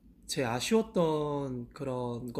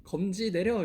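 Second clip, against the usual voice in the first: shouted command; 5 semitones higher than usual. Shown as a demonstration. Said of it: "이렇게 소리 질러주세요".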